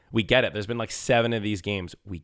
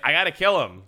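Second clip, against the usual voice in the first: higher, louder mock warrior line; mock grim Kratos; 7 semitones higher, 4 dB louder than usual. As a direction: ham up the vengeful hero. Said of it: "Once again, it's like".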